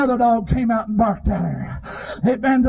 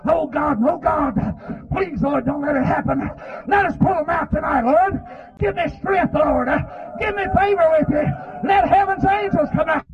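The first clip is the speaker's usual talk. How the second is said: high, urgent cries to God; fervent revival prayer rising in pitch; pleading prayer; 3 semitones higher than usual. Real, not acted. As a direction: beg heaven in short, shouted bursts.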